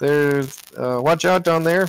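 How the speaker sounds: character voice, yelling. Voicing a character calling down to the others what he finds: Emerald yelling out. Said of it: "you hear Emerald yell out".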